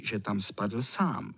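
ordinary delivery, nothing marked

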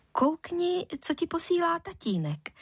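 a touch of embarrassment; awkward mother. A narrator's reading. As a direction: hand it over with poorly hidden unease. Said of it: "řekla se špatně skrývanými rozpaky".

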